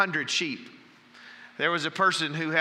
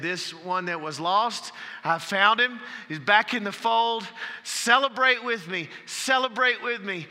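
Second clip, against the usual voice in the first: much higher and louder, exultant; joyful celebration; 7 semitones higher, 4 dB louder than usual. Retold or imitated. Shepherd calling friends to celebrate his found sheep, loud and joyful. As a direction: call everyone to rejoice. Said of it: "He said".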